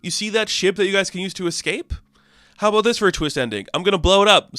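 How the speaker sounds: high, sneering villain boss rant; a cartoon TV-exec villain hamming it up; evil director. Evil director voiced in recap.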